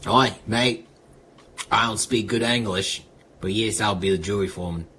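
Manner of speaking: a light, amateur Aussie voice; understated Australian accent; mock Australian accent. Shown as a demonstration. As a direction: play an Aussie bloke, loosely.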